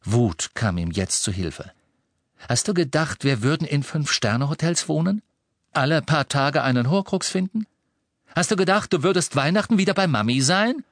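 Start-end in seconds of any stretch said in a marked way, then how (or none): 2.5-10.8 higher, louder taunting questions; scornful angry taunt; angry retort. A narrator's reading. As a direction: throw it back at him scornfully. Harry angrily retorts.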